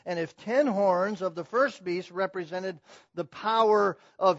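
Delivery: loud, emphatic pulpit delivery; forceful preaching. Real, not acted. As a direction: drive each phrase home to the congregation.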